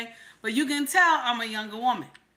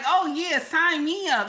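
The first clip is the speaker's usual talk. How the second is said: mock eager; 4 semitones higher, 3 dB louder, slower than usual. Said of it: "So you want me to be like".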